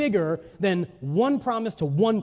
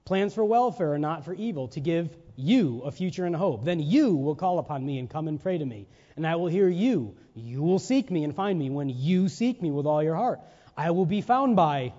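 emphatic reading with "you" picked out; stress on "you". Shown as a demonstration. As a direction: read it aloud, punching each "you". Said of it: "I'll emphasize the word I want you to get".

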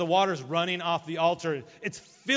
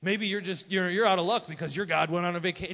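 mocking taunt, starting loud; Elijah; 4 dB louder than usual. Elijah suggests their god is on vacation, mocking. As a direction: needle them, poking fun. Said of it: "he starts mocking them and make fun of them".

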